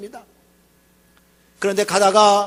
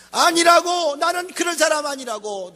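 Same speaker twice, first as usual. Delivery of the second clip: Peter's indignant denial; 5 semitones higher than usual. Retold or imitated. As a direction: insist hotly that you're not that kind of man. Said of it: "너무 자기를 과신했던 거요".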